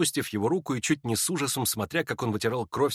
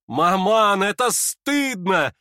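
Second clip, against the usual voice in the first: loud cry; 8 semitones higher, 5 dB louder, much slower than usual. Acted. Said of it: "громко вскричала Аглая".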